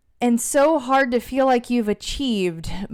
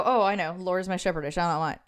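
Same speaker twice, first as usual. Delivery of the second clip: rattled-off recital; 4 dB quieter, much faster than usual. Retold or imitated. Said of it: "you start reciting it".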